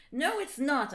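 a touch of a hammed-up angry shout; mild mock shout. Ebony answers Vampire, mild mock anger. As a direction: snap back, understated anger. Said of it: "I shouted angrily".

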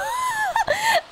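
high squealing laugh that cracks up; real shriek of laughter at the screen. Real, not acted. Laughing at the baby's glitch.

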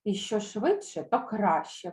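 firm mock indignation; insistent. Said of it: "мовили старі кобили".

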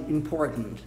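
"important" slow and low, T swallowed in the throat; swallowed, throaty. Shown as a demonstration. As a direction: gulp the middle of "important" like a G deep in the throat, New York style. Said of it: "um G no fundo da garganta".

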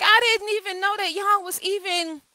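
retelling her own stunned reply; mock disbelief. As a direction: act out shocked innocence. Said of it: "and I'm like".

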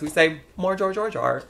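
comic Australian twang; Australian accent. Retold or imitated. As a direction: mimic an Australian insisting on it. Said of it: "And then she says".

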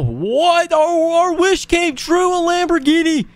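high-pitched burst of joy; excited high squeak; thrilled squeal. Real, not acted. Finds the dream Lamborghini.

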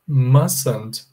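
"Mustn't" as MAS-unt, t silent; "Mustn't" clipped with the t dropped. Shown as a demonstration. Teacher modelling mustn't for the class. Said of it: "É como se eu falasse assim".

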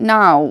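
নাও with a drawn-out, falling "au"; demonstrated pronunciation. Shown as a demonstration. Teacher showing the "ow" sound, নাও drawn out as a model. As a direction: stretch the glide in নাও for learners. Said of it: "এরূপ উচ্চারণ হবে".

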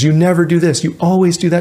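mock accusation with NEVER and ALWAYS punched; accusing partner. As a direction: hurl the blame at your partner. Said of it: "lead with criticism or contempt".

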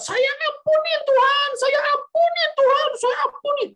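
very high, loud, full-force cry; imitated scream. Aunt finally forgiving before God, re-enacted high scream. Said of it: "dan terakhir dia teriak".

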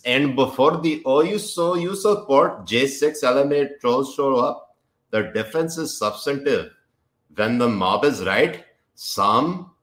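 put-on Pakistani accent. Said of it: "Pakistani accent time".

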